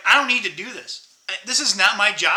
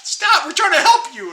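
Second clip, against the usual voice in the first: higher pitched plea to the flopping fish; lightly acted, exasperated cry; mock pleading yell; 8 semitones higher, 4 dB louder than usual. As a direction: beg the fish to hold still. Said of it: "It's like".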